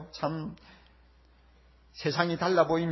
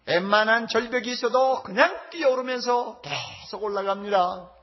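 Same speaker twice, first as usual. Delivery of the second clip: louder, emphatic pulpit delivery; forceful preaching; 6 semitones higher, 3 dB louder than usual. Real, not acted. Preacher warning the congregation about the narrow path, forceful preaching. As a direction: preach it with raised voice.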